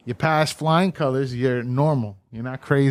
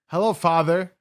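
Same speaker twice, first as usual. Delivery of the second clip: higher-pitched mock-formal greeting; a touch of stiff politeness, pitched up; mock formality; 4 semitones higher, 4 dB louder than usual. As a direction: greet him with put-on formality. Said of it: "trying to make it even".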